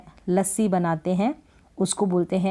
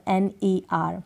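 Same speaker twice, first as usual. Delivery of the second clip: whisper; slower than usual. Shown as a demonstration. Spelling letters during lesson.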